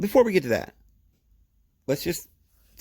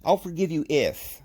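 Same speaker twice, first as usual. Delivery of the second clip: higher-pitched mock offer with strings attached; lightly voiced God; 8 semitones higher than usual. God offering forgiveness only on conditions, in a lightly acted voice. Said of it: "He sometimes will say".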